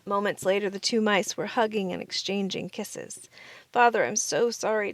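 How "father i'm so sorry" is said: blubbering. A narrator's reading. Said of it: "Timothy blubbered".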